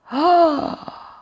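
high, loud, long "Ah!"; startled cry. A narrator's reading. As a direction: cry out in sudden discovery. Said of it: "krzyknął Ropuch".

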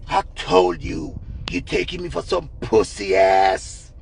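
slow, deep scolding; deliberate low-voiced mock menace; angry man. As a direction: imitate a jealous man's low, drawn-out telling-off. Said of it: "the man say".

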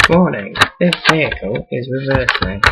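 robotic warning announcement voice; monotone machine voice; truck reversing alarm. Pretend.

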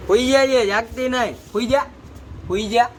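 sing-song nudge into bed; pet-talk to sleep. Real, not acted. Owner coaxing the dog to go to sleep, high pet voice.

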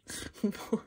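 soft, voiceless laugh of disbelief; breathless laugh. Real, not acted. Vlogger after an unbelievable pull, stunned laugh.

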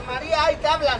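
light call, not at full volume; demonstrated call. Shown as a demonstration. Clown rehearses the volunteer's cue, lightly calling out. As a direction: model a holler at modest volume. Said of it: "Me gritas".

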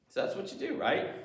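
breathy whispered aside; demonstrating silence by whispering. Real, not acted.

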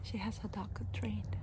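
unvoiced whisper. Real, not acted. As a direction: whisper it aside. Whispering about passing dog owner.

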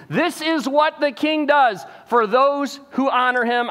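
slow, mock-reluctant royal announcement; a grudging herald voice, lightly done; half-hearted proclamation. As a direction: proclaim it like you don't mean it. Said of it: "the most half-hearted display".

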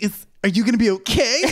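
sultry narrator. Retold or imitated. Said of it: "You're like the hot narrator".

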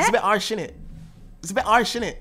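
attempted Bristolian accent. Shown as a demonstration. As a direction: copy Bristolian "harsh" as "arsh". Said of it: "how we say it in Bristol".

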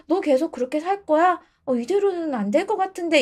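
a hint of a let-down girlfriend; disappointed girlfriend. Disappointed woman confronting her boyfriend, mildly imitated reproach.

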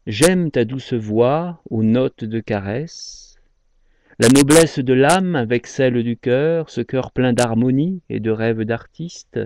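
slow, drawn-out verse reading; poem recitation. Acted. Presenter reading a love poem aloud, slowly recited. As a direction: recite it phrase by phrase with pauses between lines.

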